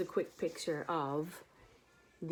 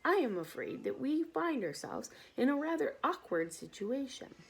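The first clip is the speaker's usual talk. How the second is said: hidden fear; 6 semitones higher than usual. Acted. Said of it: "trying very hard to keep the fear ... out of his voice".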